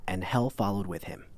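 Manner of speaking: solemn, slow biblical reading; scripture reading. A narrator's reading. Narrator reads the pale horse verse, solemn and slow. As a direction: intone it like scripture.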